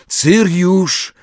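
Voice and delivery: high, urgent call. A narrator's reading. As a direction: call out for someone, pitched well up. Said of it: "zawołał". (wołanie podniesionym głosem)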